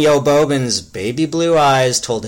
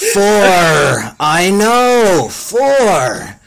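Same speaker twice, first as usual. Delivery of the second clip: harsh yell; 5 semitones higher, much slower than usual. Acted. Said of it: "yelled the other more harshly than intended".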